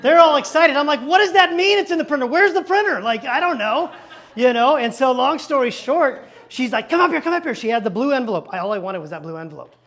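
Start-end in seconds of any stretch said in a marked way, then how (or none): 1.0-3.0 high, loud baffled questions; confused surprise. Retold or imitated. Pastor asking the clerk where the printer is, baffled and loud. 3.0-4.8 laughing. Real, not acted. Laughing at his own confusion. 6.9-7.5 high, urgent call to come forward; eager calling. Retold or imitated. Clerk calling the pastor up to the counter, eager.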